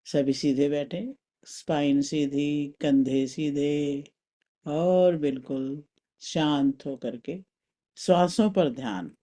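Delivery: slow, measured meditation instruction; guided meditation. Acted. Teacher settling a group into upright sitting, guided meditation. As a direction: settle them calmly, drawing the words out.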